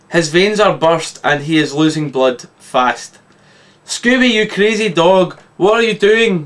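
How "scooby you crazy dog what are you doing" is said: high, raised cry at the dog; yell. Acted. The Doctor yelling at Scooby, a high raised cry. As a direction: shout it out in alarm. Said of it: "yells the Doctor".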